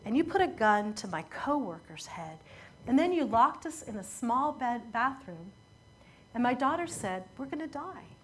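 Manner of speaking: mildly voicing a crying mother's plea; understated retelling of a sobbing victim; retold sobbing. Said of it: "She's sobbing while she says that".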